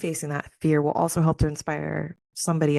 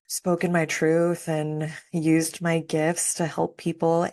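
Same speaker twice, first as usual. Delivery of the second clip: ordinary delivery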